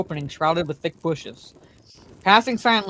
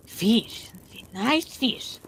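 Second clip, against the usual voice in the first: sly creature voice crooning over fish; crooning to himself; 4 semitones higher, much slower than usual. A narrator's reading. Gollum voice continues.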